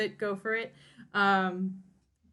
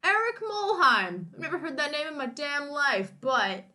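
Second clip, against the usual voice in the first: a lightly pitched-up maître d' pondering; restaurant boss voice; 3 semitones higher than usual. Retold or imitated. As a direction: play the puzzled maître d' musing aloud. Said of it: "the head of Delmonico's is like".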